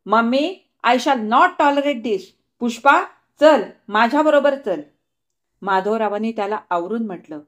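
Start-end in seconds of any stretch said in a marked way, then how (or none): 0.0-4.8 raised, indignant brother's outburst; a brother boiling over, louder at the end; flaring up angrily. Acted. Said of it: "तिचा भाऊ पुन्हा उसळून म्हणाला".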